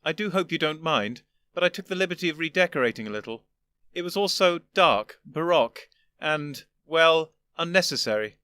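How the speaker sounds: put-on an old gentleman patiently explaining; lofty old Doctor. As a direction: superior elder explaining to his younger self.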